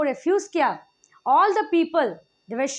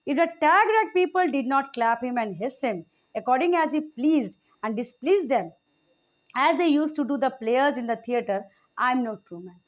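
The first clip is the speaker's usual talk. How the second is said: slow, measured reading of the play text; Shakespeare reading; much slower than usual. Acted. Teacher reading Casca's speech to the class, slow and measured. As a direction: read the old verse deliberately, word by word.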